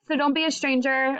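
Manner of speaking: real tears catching in the throat; voice breaking. Real, not acted. Teacher saying goodbye to her class, voice breaking with tears. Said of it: "Oh my gosh, I'm crying".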